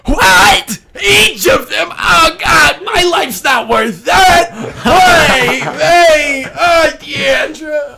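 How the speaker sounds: high squeaky wailing gopher; panicked squeaky voice. Acted. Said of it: "He goes".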